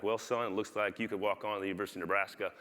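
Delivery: lightly imitated Southern coach drawl; a hint of a Southern drawl. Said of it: "such a southern drawl".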